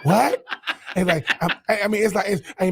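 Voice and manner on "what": mock Southern movie accent, lower at first; lower-pitched drawl, then a questioning "what?"; Terrence Howard impression. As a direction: imitate an actor's awkward Southern drawl. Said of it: "the thing about Terrence Howard is".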